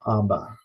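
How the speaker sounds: Abba, both syllables clear and even; teacher demonstrating Abba; Greek vocabulary word. Shown as a demonstration. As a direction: model Abba for students to repeat. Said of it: "Next word is".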